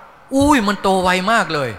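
slowly drawn-out "อุ้ย", amazed at the growth; a child telling the teacher the plants grew so fast, amazed and drawn out. Retold or imitated. Teacher voicing amazed children, slow and wondering.

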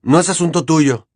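Harry brushing Ginny off; biting reply; harsh retort. Acted. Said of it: "contestó él con aspereza".

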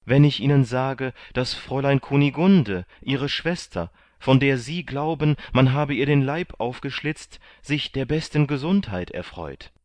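high, loud, eager delivery; animated, high-pitched announcement; excited revelation. A narrator's reading. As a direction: break joyful news with mounting urgency. Candide reveals sister is alive.

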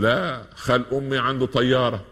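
boastful one-upping. Retold or imitated. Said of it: "يقول".

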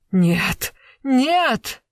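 loud, rising double no; cornered man breaking loose, crying no; desperate cry. A narrator's reading. Accused man cries out in denial.

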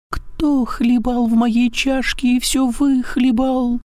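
very high slow squeak; squeaky thin voice. A narrator's reading. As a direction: squeak like a tiny bear cub. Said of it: "запищал тоненьким голосом".

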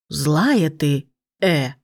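sulky serpent. A narrator's reading. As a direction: pout like a scolded snake. Serpent sulks after hit.

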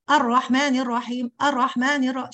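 الرحمن with the doubled ra clipped to one short ra; rushed doubled ra. Shown as a demonstration. Teacher imitates a student reading the basmala too fast. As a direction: rush through the shadda. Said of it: "شايفة بسرعة إزاي هي".

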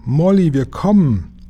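high, drawn-out rescue call; urgent, high calling voice; crying out. A narrator's reading. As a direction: yell it slowly across a distance. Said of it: "schrie Jim".

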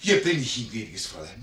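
hushed whisper; flüstern. Acted. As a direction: whisper the words to her. Servant whispers to the lady. (geflüstert)

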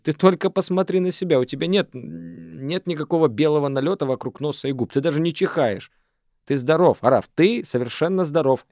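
выше и громче, убеждая; убеди его, что он здоров; горячо. Acted. Шана горячо спорит. (Шана разубеждает Арафа: выше и громче, горячо)

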